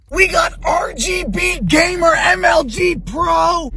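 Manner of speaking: high, slow gamer hype yell; hype shout. Pretend. Showing off the new car's lights, a slow hype shout. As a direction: announce it like a gamer ad.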